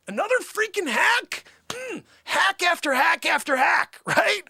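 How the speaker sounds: high, loud, indignant character voice; over-the-top art snob. Acted. Artist ranting to the audience, loud and high. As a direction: rant at full pitch about the stolen ceiling. Future Mark character rants about Michelangelo.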